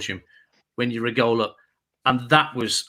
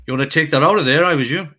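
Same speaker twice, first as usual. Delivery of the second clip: put-on a light Welsh car park attendant accent, a bit louder; 5 dB louder, faster than usual. Car park attendant warning a Birmingham fan, in a Welsh accent. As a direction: warn him in a lilting Welsh accent. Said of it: "your Welsh accent's better than mine".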